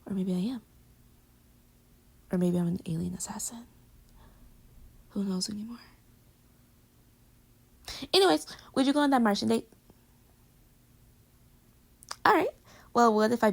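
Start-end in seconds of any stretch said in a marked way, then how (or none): 0.1-5.8 whisper. Pretend. Mock secret alien confession. 10.8-12.5 laughing. Real, not acted. Laughs then moves on.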